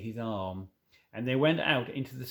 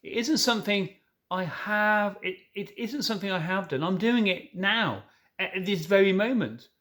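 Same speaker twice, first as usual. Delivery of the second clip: urgent faun; 5 semitones higher, 4 dB louder than usual. Acted. Fawn urgent confession.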